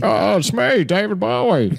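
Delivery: high mock star introduction; a singer. Shown as a demonstration. Another go after being teased as Italian, high put-on voice. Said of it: "wish I could do a David Bowie impression".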